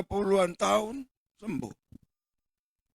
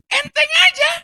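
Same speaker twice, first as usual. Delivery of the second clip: casual; 12 dB louder than usual. Acted. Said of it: "gaya saya lah, sedikit-sedikit didramatisir".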